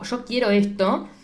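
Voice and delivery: "quiero" leaned on, said slowly with a rise; firm restatement. Retold or imitated. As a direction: spell it out slowly so the decision lands.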